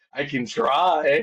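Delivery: slow, laughing it out. Real, not acted. Asked to scream again, answering with a real laugh. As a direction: chuckle through a modest answer.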